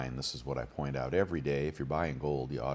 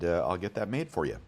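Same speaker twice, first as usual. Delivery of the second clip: hiccups; 3 semitones higher than usual. Real, not acted. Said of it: "Excuse me, I got the hiccups".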